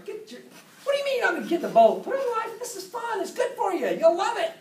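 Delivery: hammered-up pushy dad forcing it; pushy loud parent. Retold or imitated. Father pushing a scared daughter into the boat, loud and high. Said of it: "Scare her into it".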